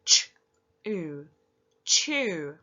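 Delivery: each sound of chew said apart, then blended; sounding out letters. Shown as a demonstration. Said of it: "Let's use your sounds".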